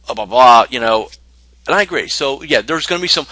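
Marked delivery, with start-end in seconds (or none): 0.0-0.7 mock freak-out. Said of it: "go automatically in freak zone and say".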